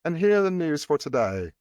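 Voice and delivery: mock a British news intro; put-on British broadcaster voice; British accent. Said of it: "Because of their British accents".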